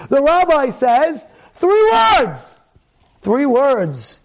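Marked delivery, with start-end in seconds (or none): 1.5-2.6 emphatic. Real, not acted. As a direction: proclaim it to the crowd. Preacher building to the answer.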